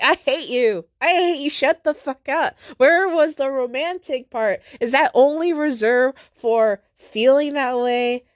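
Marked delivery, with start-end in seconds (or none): 0.0-2.5 mock rage. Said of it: "And I'm like".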